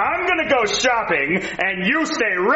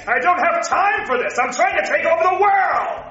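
cartoon villain rant; 6 semitones higher than usual. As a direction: rant like a supervillain.

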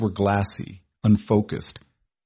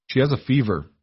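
steady calm voice; 4 semitones higher than usual. Acted. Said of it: "He kept his voice steady, low, and incredibly calm".

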